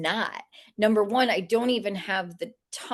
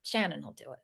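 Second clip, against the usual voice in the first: spirits' voices; 4 semitones lower, 9 dB quieter than usual. Retold or imitated.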